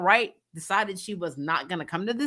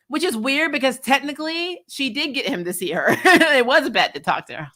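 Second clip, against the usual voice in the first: higher pitch, laughter breaking in; amused, laughing; 6 semitones higher, 3 dB louder than usual. Real, not acted. Host pointing out who really talked to her, laughing. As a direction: laugh through the point as you make it.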